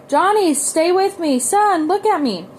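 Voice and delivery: desperate pleading. A narrator's reading. Father pleading with choking son.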